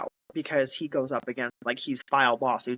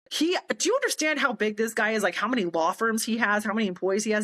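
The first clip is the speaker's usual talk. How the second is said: higher-pitched, incredulous friend; astonished; 6 semitones higher than usual. Retold or imitated. Friend reacting to the big lawyer calling personally, astonished. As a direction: imitate a friend who is amazed and impressed.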